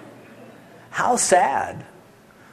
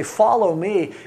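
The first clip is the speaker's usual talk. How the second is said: calling out; 5 semitones higher, 4 dB louder, slower than usual. Acted. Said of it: "they call out to them".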